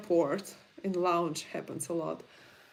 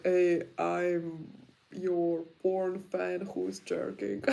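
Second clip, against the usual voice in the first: slow, lightly voiced creepy fan; mock crude fan; slower than usual. Mocking a crude porn fan introducing himself, slow and sleazy. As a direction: put on a sleazy fan for a laugh. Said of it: "they not have to say, like".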